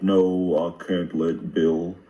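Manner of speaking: put-on Biden given a Southern accent; lightly put-on Southern drawl for a mock Biden quote. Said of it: "I gave Biden a Southern accent".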